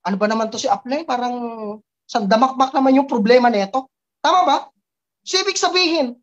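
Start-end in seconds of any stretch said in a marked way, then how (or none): 0.0-3.9 quick, lowered grumble about the upline; downline grumbling. Pretend. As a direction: grumble it fast to yourself. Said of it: "Nagigets mo?". (mabilis na reklamo)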